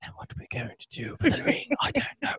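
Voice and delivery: whispered, hushed, breathy epic-fantasy movie whisper. Mocking how everyone in the movie talks, Lord of the Rings whisper. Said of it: "whispers the whole movie".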